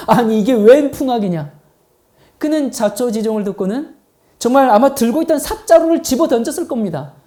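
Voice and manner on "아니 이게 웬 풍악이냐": 살짝 놀라서 큰 소리로 따지듯; 웬 소란이냐는 듯 힘주어 되묻기; 놀란 큰아들. Acted. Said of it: "눈이 정말 휘둥그레졌습니다". (깜짝 놀란 목소리로)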